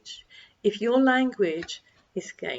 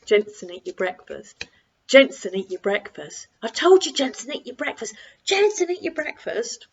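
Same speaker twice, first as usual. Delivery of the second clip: escalating shout; 2 semitones higher, 6 dB louder than usual. Shown as a demonstration. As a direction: lose your patience step by step until you yell. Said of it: "So instead of it being".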